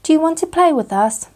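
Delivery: high, eager little Piglet. A narrator's reading. Piglet inviting Pooh to play, high and eager. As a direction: ask like a small excited piglet.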